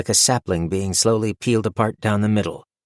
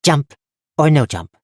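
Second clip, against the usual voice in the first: louder, higher blunt goblin command; goblin ultimatum; 7 semitones higher, 6 dB louder than usual. A narrator's reading. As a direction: push the choice hard. Goblin gives the choice.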